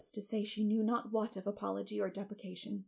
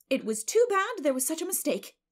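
high, loud show of sympathy; neighbor's effusive pity; sympathetic; 8 semitones higher, 7 dB louder than usual. A narrator's reading. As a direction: commiserate in a raised, emphatic voice. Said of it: "said Missus Rachel sympathetically".

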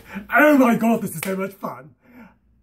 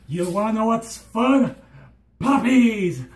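cheery puppies; 2 semitones higher than usual. Pretend. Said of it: "then I can be like".

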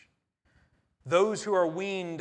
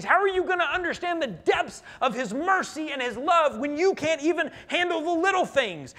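stern rebuke; 10 semitones higher, 8 dB louder than usual. Retold or imitated. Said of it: "Isaiah has come to them and said".

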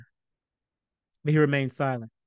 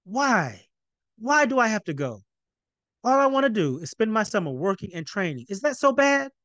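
high, pleading, near-tearful protest; plead, voice climbing toward tears; 6 semitones higher than usual. Acted. Teary son pleads with his father. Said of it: "beginning to tear".

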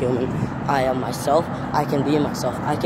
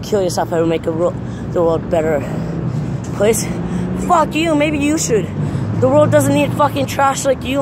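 angry yelling; 9 semitones higher than usual. Real, not acted. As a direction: scream it back at them in real rage. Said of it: "I don't care if I'm talking like this".

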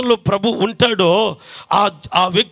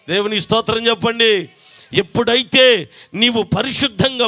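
preaching. Acted. Preaching at full force.

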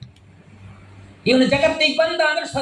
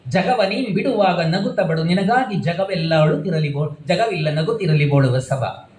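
poem recitation; 3 semitones lower than usual. Acted. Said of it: "ಅದಕ್ಕೆ ಹೇಳ್ತಾನೆ ಒಬ್ಬ ಕವಿ".

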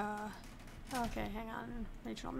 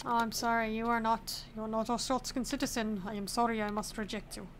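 lightly hammed-up Arstotzkan border-officer accent; put-on Arstotzkan accent; 3 dB quieter than usual. Border inspector rejecting a non-citizen, mock Arstotzkan accent. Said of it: "I'm so sorry for the accent".

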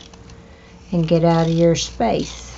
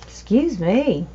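hiccups; 3 semitones higher, slower than usual. Real, not acted. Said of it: "I got the hiccups".

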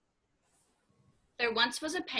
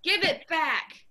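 slow, loud demand, each word clear; slowed-down shout; 5 semitones higher, 4 dB louder than usual. Shown as a demonstration. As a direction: spell out the shout slowly.

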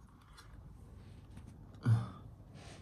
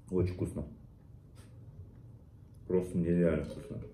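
chewing while talking. Real, not acted. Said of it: "сацебели соус".

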